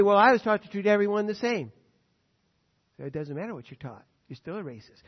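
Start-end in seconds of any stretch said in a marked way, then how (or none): 0.0-1.7 mock defensive white man. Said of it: "don't let him say".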